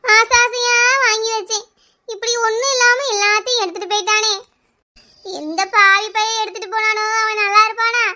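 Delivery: acted tearful wail; weepy grieving complaint; crying lament. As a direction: lament a loss through stagey tears. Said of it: "ஏமா கிடந்து அழுதுட்டு இருக்கா".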